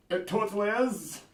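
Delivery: high, defiant insistence in a put-on voice; indignant bad-accent character. Character defending his bad Scottish accent, high and indignant. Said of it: "He's like".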